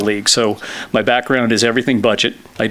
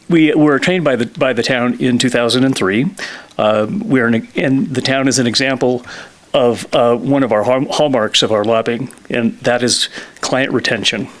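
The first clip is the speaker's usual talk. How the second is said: winded from running upstairs; out of breath. Real, not acted. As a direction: talk while catching your breath. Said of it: "I'm a little out of breath".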